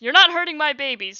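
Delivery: loud, defiant cry; screaming. Acted. Mother dragon screaming at the attacker, loud. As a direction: scream it to protect the babies. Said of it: "screamed Fleur".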